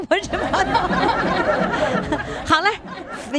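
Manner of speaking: bursts of high laughter; laughing. Real, not acted. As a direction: laugh through the words. Host laughs at caller.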